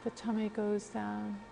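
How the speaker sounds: calm, unhurried guidance with long pauses; guided breathing meditation. Real, not acted. Leads a breathing exercise.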